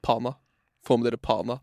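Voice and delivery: hyping Pana like a radio host; playful DJ shout-out for Pana; mock radio DJ. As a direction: announce it like a club DJ plug. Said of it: "jeg høres ut som en D J".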